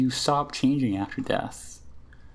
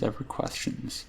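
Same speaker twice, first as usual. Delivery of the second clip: unvoiced whispered repeat; a hushed echo of the first; 7 dB quieter than usual. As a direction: let it fade to a whisper.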